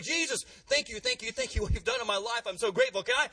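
a lightly voiced grateful man begging; eager freed man. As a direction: gush like an eager kid begging to tag along. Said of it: "He's like".

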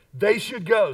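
passion and conviction. Shown as a demonstration. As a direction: say it with real conviction to rally the room. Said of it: "with a little more passion and conviction".

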